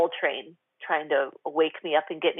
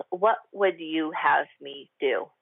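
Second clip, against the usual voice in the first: prayerful question; slower than usual. Shown as a demonstration. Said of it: "this comes straight from".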